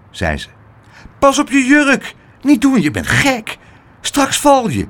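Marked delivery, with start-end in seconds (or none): 1.2-4.9 high, urgent scolding warning; pitched-up, anxious cries of warning; alarmed warning. Acted. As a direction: call out to stop a reckless friend.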